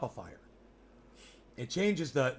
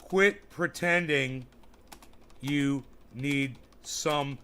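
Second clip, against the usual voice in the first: emphatic rant; much slower than usual. Real, not acted. Addressing billionaires, emphatic.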